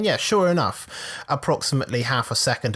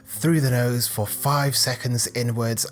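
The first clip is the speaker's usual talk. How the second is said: mock meditation guide. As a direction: gently parody a calm meditation tape. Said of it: "they'll say something like".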